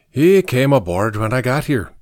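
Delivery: put-on light Irish accent; a hint of Irish brogue. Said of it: "Patrick said in his Irish brogue".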